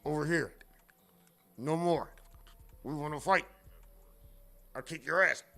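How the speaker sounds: soft, far-off dubbed-kung-fu lines; mock dubbed movie. Streamer mocking a badly dubbed Chinese movie, soft dub voice. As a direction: voice out of sync like a bad dub. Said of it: "You might see a nigga say".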